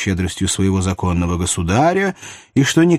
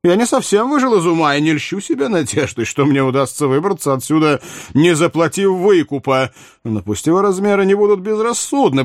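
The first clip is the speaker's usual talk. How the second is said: higher-pitched, animated royal voice; theatrical high-voiced king defending himself; reasoning king; 6 semitones higher than usual. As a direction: argue your good sense as the monarch. Narrator voices King Louis.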